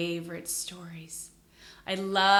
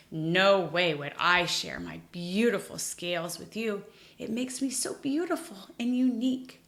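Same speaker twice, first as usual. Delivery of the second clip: proud fish voice; 2 semitones higher, 5 dB louder than usual. Acted. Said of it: "Rainbow fish said".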